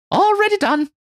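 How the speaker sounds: high, loud triumphant cry; exulting. Acted. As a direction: crow it out in triumph. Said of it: "exults Marie".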